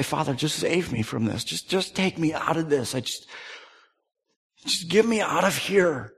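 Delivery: soft, hushed plea; a murmured prayer of escape; half-whispered begging; pleading quietly. Acted. Voicing Jesus' private plea.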